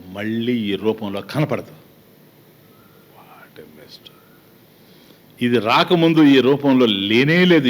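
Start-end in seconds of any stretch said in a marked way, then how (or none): 3.2-4.1 breathless whisper of dismay; softly lamenting what death leaves behind; whispered aside. Real, not acted. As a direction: drop to a whisper, almost to yourself.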